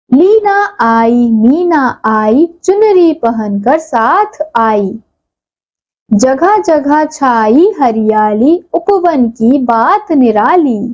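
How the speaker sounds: slow, sing-song poem reading; poem recitation. Shown as a demonstration. Teacher reciting a short poem for the class, in a sing-song way. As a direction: recite it gently, like a rhyme for children. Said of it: "इन वाक्यों का नाम है".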